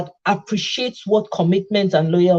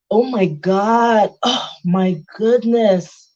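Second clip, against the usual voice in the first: posh showing off; slower than usual. Pretend. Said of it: "I go change level".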